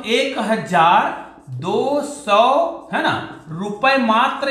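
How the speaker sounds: एक हजार दो सौ spelled out very slowly; slow, careful dictation of the amount. Shown as a demonstration. Teacher showing students how he writes the slip, very slowly. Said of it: "इसको मैं क्या लिखता हूं".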